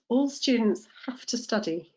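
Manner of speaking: "have to" run together as "hafta"; natural connected speech. Shown as a demonstration. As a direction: say "have to" with F and weak "tuh". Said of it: "we end up with an F sound".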